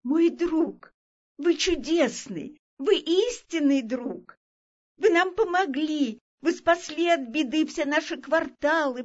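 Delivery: high-pitched, grateful tiny creature. A narrator's reading. Speck dweller thanks the elephant for saving town, tiny high voice. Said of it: "А крошечный голос звучал".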